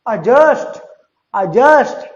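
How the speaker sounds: "adjust" with a silent d, uh-JUST; teacher repeats "adjust" without the d; correct pronunciation. Shown as a demonstration. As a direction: model "adjust" for students, d dropped. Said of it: "it is not pronounced adjust".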